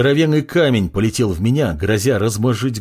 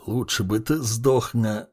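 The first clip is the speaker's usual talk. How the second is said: quiet mumble through bloodied, numb lips; mumbling through numb lips; 5 dB quieter than usual. Acted. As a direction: lips barely moving, trailing off. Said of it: "пробормотал Андрей окровавленными, непослушными губами".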